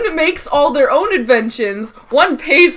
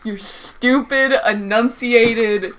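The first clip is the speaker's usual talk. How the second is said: slow, over-enunciated mimicry; mocking narrator voice; 2 semitones lower, slower than usual. Teasing a sibling about their voice, slow mock narration. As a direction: lightly mimic a careful narrator, word by word.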